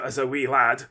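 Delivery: lightly put-on Scottish accent. Recalling childhood to the viewers, in a light Scottish accent. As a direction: slip briefly into a Scottish accent. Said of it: "did that in a Scottish accent".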